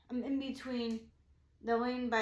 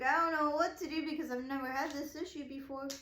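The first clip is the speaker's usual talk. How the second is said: slightly raised, helpless complaint; retold freaking out; 3 semitones higher than usual. Driver new to breakdowns, mildly freaking out. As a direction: re-enact mild panic. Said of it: "freaking out".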